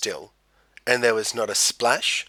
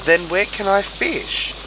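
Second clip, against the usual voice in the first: sad; 9 semitones higher, 5 dB louder than usual. A narrator's reading. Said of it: "said Kingfisher sadly".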